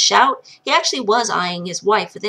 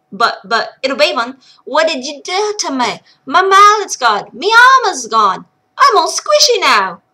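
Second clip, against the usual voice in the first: louder, agitated brogue; ranting old dwarf; 4 dB louder than usual. Acted. Miner accusing his wife of being an impostor, agitated. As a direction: rant like a confused madman.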